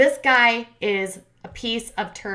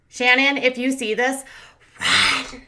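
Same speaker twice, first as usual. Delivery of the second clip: urgent warning; 3 semitones higher, 3 dB louder, slower than usual. Real, not acted.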